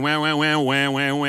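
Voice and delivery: wah chant held level, no drop at the end; whine without going down. Shown as a demonstration. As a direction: keep the wah from falling. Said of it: "I want you to not go down".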